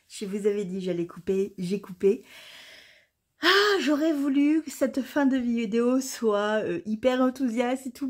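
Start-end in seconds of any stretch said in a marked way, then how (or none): 3.4-6.0 higher, put-out complaint; real annoyance. Real, not acted. Vlogger telling viewers the ending won't be enthusiastic, annoyed. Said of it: "je suis hyper contrariée".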